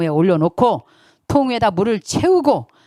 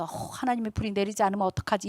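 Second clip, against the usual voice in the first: hushed, acted fretting; softly imitated worry; mock worried; 10 dB quieter, faster than usual. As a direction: voice a doubter's anxious thought under the breath. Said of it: "막 두려워서".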